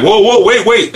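high, startled cop voice; mock police officer. Storyteller imitating the startled cop, pitched high. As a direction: squeak it out like a spooked officer. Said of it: "The police was like".

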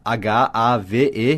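H A V E spelled letter by letter, slow; spelled out slowly. Shown as a demonstration. Teacher spelling H A V E slowly for the student. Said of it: "I have".

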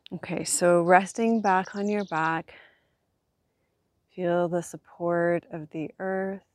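calm voice easing tension away; soft spa whisper. Acted. Guides body relaxation on back.

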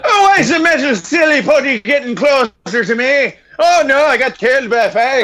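mock panic. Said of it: "voicing the doomed character".

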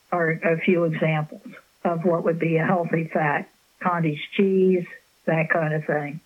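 hoarse, fading voice; losing voice. Real, not acted. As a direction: talk through a tired, hoarse throat. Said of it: "I'm losing my voice a little bit here".

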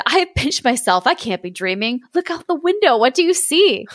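lightly voiced flustered king; a hint of a baffled Sultan.

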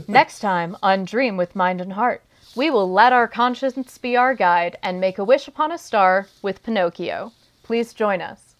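light radio announcer read; newscaster voice. Acted. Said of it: "newscaster radio voice".

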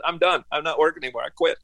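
insisting for the fifth time, leaving no doubt; firm retold quit. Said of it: "After I said it about five times".

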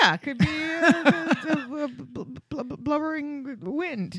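sputtering, amused word search; laughing stammer. Real, not acted. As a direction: fumble for words while laughing. Riffing, stammering through laughter.

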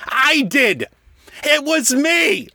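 furious lament to the heavens; raging cry. Acted. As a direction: rail at the ceiling. Raging at the dead rival.

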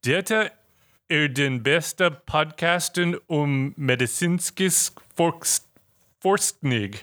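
slow, careful Norwegian read-out. Shown as a demonstration. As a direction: sound out "Data er den beste Podcasten" word by word. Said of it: "That's Norwegian".

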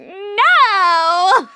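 high loud shout. Retold or imitated. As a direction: yell it out. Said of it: "And I'm like".

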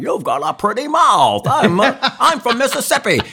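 high, loud, hammed-up Scottish impression; Sean Connery. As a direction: ham up a star's absurd audition. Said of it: "Sean Connery auditioned".

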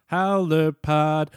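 stretched, loud and high show name; drawn-out show call. Acted. Host calls the show name out long and loud. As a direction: belt the podcast name like an announcer.

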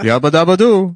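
hammed-up loud cartoon catchphrase; Fred Flintstone catchphrase. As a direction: belt it out like a cartoon caveman. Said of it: "that Fred Flintstone says that".

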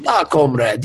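high, slow mock Russian accent; hammy Russian comrade accent. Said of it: "with a Russian accent".

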